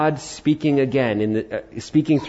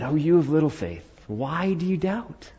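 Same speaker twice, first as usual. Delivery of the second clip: softened, tender questioning; gentle reproach; 2 semitones higher, 5 dB quieter than usual. Acted. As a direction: chide softly, stretching out the question. Gentle Jesus, against the scolding one.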